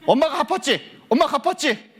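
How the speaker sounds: high-pitched, cocky greeting; confident, acted. Child meeting friends after mother repaid them, acted confidence. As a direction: hail friends boldly with nothing left to owe. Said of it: "당당하게 갔어요".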